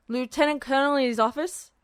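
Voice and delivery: talking around a mouthful of donut; muffled through a big bite; mouth full. A narrator's reading. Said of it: "his words muffled as he talked around the huge bite".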